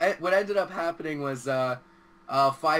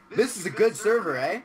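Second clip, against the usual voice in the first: a lightly Canadian, slightly higher "eh?"; 3 semitones higher, 3 dB louder than usual. Shown as a demonstration. Explaining how to use eh, a mild Canadian example. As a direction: tack on a friendly Canadian eh. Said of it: "It's like".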